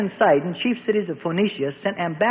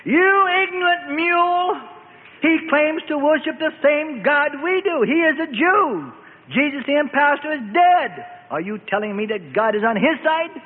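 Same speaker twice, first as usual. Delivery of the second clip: much higher, slow, contemptuous fury; seething with anger; 7 semitones higher than usual. A narrator's reading. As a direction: spit scorn at the fool who failed him. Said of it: "seething with anger".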